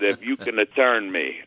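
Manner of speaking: put-on old Italian trainer in a mild Italian accent, daring the big guy; English-Italian accent. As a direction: lay on a hint of an Italian accent, calm and sure. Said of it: "I'm gonna now do an English-Italian accent".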